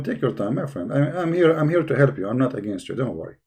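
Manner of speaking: soft, lowering reassurance; reassuring. Real, not acted. Host telling a nervous reader he is here to help, reassuring.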